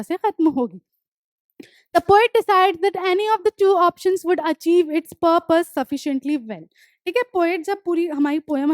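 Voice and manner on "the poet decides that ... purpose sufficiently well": deliberate dictation pace, each word spaced; slow textbook reading. Acted. Teacher reading the poem notes aloud to students, slow and deliberate. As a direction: read the line out slowly for the class to copy. Reads textbook line slowly.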